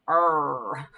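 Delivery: "R" as a curled English R; a hard American "R", tongue pulled back; mock wrong English "R" sound. Shown as a demonstration. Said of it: "not like we say where we're like".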